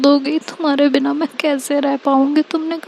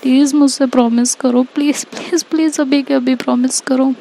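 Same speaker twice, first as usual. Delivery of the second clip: higher, tearful voice, begging through sobs; tearful pleading; 5 semitones higher than usual. Acted. Ishika begs Tanya never to leave her, tearful and pleading. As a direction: plead like a heartbroken friend in tears. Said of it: "ऐसा बोलती है और बहुत रो रही होती है".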